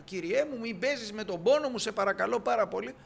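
a hint of a hurt mother begging; pleading woman. The woman begs Elisha not to mock her pain, mildly pleading.

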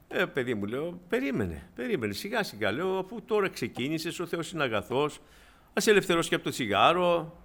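gentle reassurance. Retold or imitated. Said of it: "της είπα με ωραίο τρόπο".

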